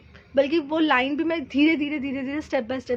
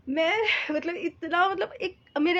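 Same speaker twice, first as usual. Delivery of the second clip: choked up; 3 semitones higher than usual. Real, not acted. Moved recalling uncle's kind words.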